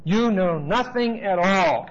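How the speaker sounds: contemptuous. Acted. Preacher reading Caiaphas to the congregation, slow and scornful. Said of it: "he is very, very contemptuous".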